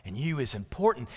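slow, drawn-out nanny voice; softly, slowly reassure a little girl; nanny affirming a child. Retold or imitated. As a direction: say each line slowly, with long weight on YOU. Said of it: "this lady would look at her and say".

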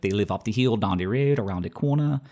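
West Indies-meets-English accent with odd vowels; hint of Caribbean-South African vowels; weird-voweled island accent. Shown as a demonstration. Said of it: "their vowel sounds are really weird".

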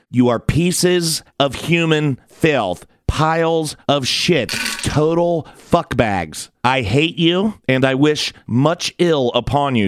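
slow, pointed insults aimed at the author; angry callout. Real, not acted. Podcaster cursing out the article's author, slow and contemptuous. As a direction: spit each insult out deliberately.

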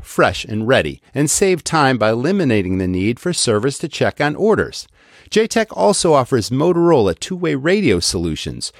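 upbeat sponsor read. Acted. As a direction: sell it like a radio spot. Host reads sponsor ad.

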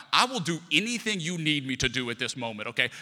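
begging a pastor friend to rescue him from the shelter, urgent plea; desperate plea. Retold or imitated.

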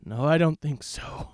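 a lightly hammed smug refusal; game villain. Villain refuses the hero, lightly hammed smug refusal. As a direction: turn him down smugly. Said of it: "I will be Alex Mercer".

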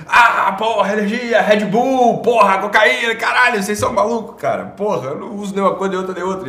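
high, loud, manic hype; hyped-up energy. Pretend. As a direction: play a wired, overexcited host. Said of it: "eu quero que todo dia tu chegue assim".

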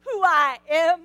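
a hammed-up affronted archangel; a mock rebuke from Gabriel; indignant angel. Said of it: "when he heard the word Gabriel".

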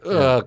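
short groan of pain, acted out; imitated pained groan. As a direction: groan as if just slammed into the ground. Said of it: "in a lot of pain".

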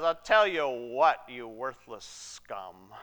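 slow acted contempt, loud then dropping low; contemptuous threat. Joseph addressing his suspected-spy brothers, in mock contempt. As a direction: draw it out, sinking onto the insult.

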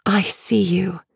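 small, soft whisper; tiny soft voice. Acted. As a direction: breathe it tenderly. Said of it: "Her voice is tiny and soft".

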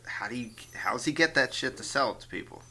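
whispered question. Real, not acted. Unvoiced whisper.

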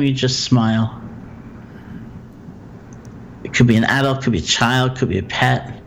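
calm, measured meditation guide with long pauses; guided meditation. Acted. Teacher guiding a listener through loving-kindness phrases, guided meditation. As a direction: guide them gently through it, leaving room for silence.

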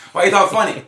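put-on high, loud kid voice; squeaky curious kid; kid asking. A child asking why his dad talks funny, high and loud.

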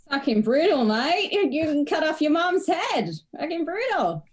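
broad put-on Australian accent. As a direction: exclaim like an incredulous Aussie, pitched right up. Reacts as an exaggerated Aussie mate.

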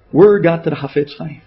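ordinary delivery

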